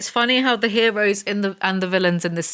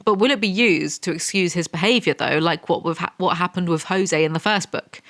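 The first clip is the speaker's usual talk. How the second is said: ordinary delivery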